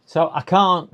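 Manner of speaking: choking mid-sentence; words cut by a choking fit. Real, not acted. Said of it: "I'm choking".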